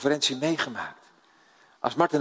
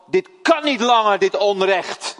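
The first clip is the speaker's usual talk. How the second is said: louder and higher, outraged cry against injustice; righteous indignation; 6 semitones higher, 6 dB louder than usual. Retold or imitated. Preacher voicing Moses seeing the Hebrew beaten, indignant outburst. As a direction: voice Moses' holy anger rising up. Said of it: "Er kwam een heilige verontwaardiging in hem naar boven".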